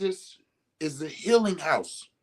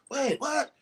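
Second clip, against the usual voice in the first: mock surprise; 10 semitones higher, 3 dB quieter than usual. Mock double take.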